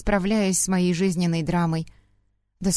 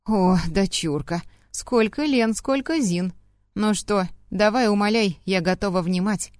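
drunk mocking mother. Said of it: "голос визгливый и немного гнусавый".

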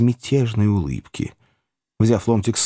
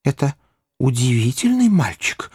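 Pickwick; 3 semitones higher than usual. A narrator's reading. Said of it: "отвечал мистер Пиквик".

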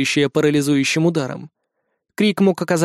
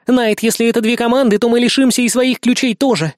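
hurried warning; 6 semitones higher, 3 dB louder than usual. A narrator's reading. Reikki hurrying him.

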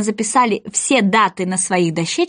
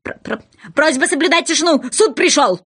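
stammering shout; 5 semitones higher than usual. Acted. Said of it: "белый кролик прокричал".

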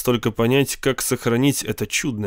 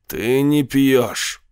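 дьявол на плече; much slower than usual. A narrator's reading. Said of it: "сказал дьявол у него за плечом".

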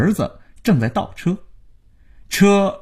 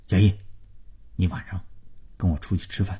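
stern; 5 semitones lower, 8 dB quieter, much faster than usual. A narrator's reading. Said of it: "胜利对他板起脸".

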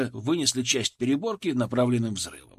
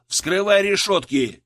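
loud, slow, higher push to hurry; urging order; 5 semitones higher, 5 dB louder, slower than usual. A narrator's reading. Leader urging the sapper to open the cages, loud. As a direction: drive the sapper on, each word hit. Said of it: "поторопил".

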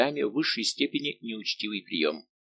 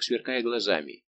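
ordinary delivery

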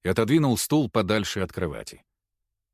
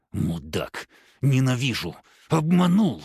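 hissed insults; slower than usual. Acted. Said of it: "шипела девушка".

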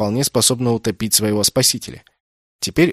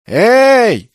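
shout; 11 semitones higher, 8 dB louder than usual. Acted. Calling for help in water.

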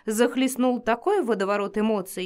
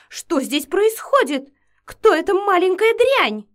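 high, loud screeching outrage; shrill fury; 10 semitones higher, 8 dB louder than usual. Acted. Jealous vampiress screams at the girl, shrill fury. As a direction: screech at the rival. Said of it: "визгливый голос".

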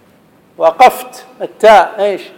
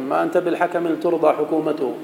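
poem quote; 5 dB quieter than usual. Shown as a demonstration. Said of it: "جرير".

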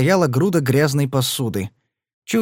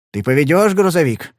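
hopeful; 4 semitones higher, 3 dB louder than usual. Acted. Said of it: "с надеждой спросил Падлер".

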